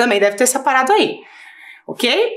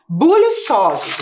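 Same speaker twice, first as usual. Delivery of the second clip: 1 slow dictation; 2 semitones higher, much slower than usual. Shown as a demonstration. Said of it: "Buliçosos eu vou escrever aqui".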